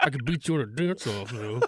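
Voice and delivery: soft mumble under the breath. Retelling own words while lying shelled up during a beating: imitating a mutter under the breath. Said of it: "I muttered under my breath".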